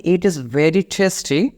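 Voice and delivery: slow and drawn out; weak phrase said slowly to avoid; slow wrong example. Shown as a demonstration. Teacher showing phrase not to use, slowly. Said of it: "এই শব্দটা আপনি বলবেন না".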